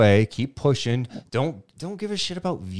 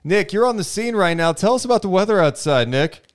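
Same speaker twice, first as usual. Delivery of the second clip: higher, upbeat anchor throw to the field; news anchor; 5 semitones higher than usual. Pretend. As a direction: hand off to the reporter on the scene. Host plays news anchor handing off.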